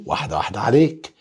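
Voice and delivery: "واحدة واحدة عليك" rattled off fast, ignoring the plea; teasing fast. Shown as a demonstration. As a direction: rush the words to tease the student. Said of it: "حاضر".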